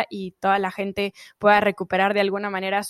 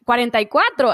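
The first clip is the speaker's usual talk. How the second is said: talking while chewing; words round a bite of food; mouth full; 4 dB louder than usual. Real, not acted. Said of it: "ay, me estoy comiendo uno". (con la boca llena)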